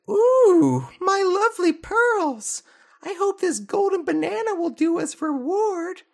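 very high, falsetto, with a teary ooh; hammed-up crying mermaid royalty; mermaid princess voice. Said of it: "so Pearl says".

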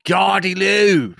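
high, slow, drawn-out stab at Scottish; attempted Scottish accent. Shown as a demonstration. Trying the word out for co-hosts, shaky attempt at Scottish accent. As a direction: call it out in a dubious Scottish accent. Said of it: "No, that's not Scottish, is it?".

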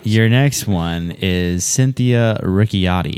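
slow, formal quiz host read; announcer voice. Acted. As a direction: announce the word slowly like a spelling bee host. Spelling bee host announcing word.

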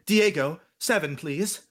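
a hint of vintage screen diction; old-movie talk. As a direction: imitate an old movie actor's cadence. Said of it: "Did people actually talk like that".

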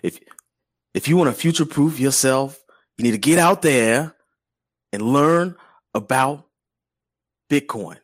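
hammed-up, measured movie-star delivery; a badly faked actor's voice; Denzel Washington. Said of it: "supposed to be doing a Denzel voice".

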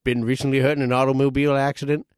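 lightly put-on injury-lawyer commercial read; mock lawyer ad. Spoofing a Pokemon law officers' commercial, mock announcer read. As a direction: pitch the law firm like a TV ad.

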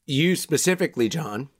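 talking around a lozenge; words round a throat lozenge; sucking a lozenge. Real, not acted. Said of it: "you sound crazy right now".

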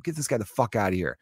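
soft, held-back mock order; imitated muted outrage. Slapped comedian imagined ejecting his attacker, muted outrage. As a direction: order him out without raising your voice. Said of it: "He could have been like".

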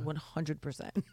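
drawn-out catchphrase. Retold or imitated. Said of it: "I'm like".

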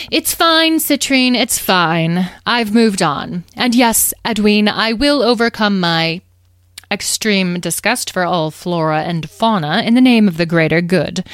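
lightly voiced long-suffering grandeur; theatrical, put-upon nobility; resigned fairy leader. Carnelian sighs, nobly resigned.

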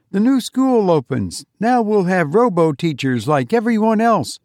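put-on a boy begging for help on a big day; eager little boy. Johnny pleading with his mother, high and eager.

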